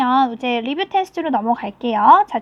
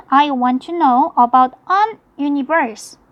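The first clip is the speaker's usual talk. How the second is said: slow reading; much slower than usual. Shown as a demonstration. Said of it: "자, 그다음 팔 번".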